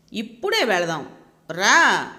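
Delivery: put-on boy yelling his demand, loud on the last word; angry little boy yelling at grandma to go now; shouting child. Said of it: "గట్టిగా అరుస్తున్నాడు".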